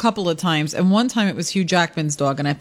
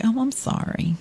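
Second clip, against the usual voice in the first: mock swooning apology; 4 semitones higher, 3 dB quieter than usual. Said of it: "I was like".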